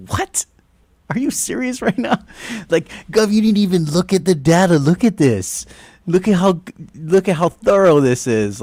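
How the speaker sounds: high, loud incredulous outburst at the governor; shocked disbelief. Retold or imitated. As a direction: squeal it out like you can't believe she said no. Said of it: "I was, like, super shocked".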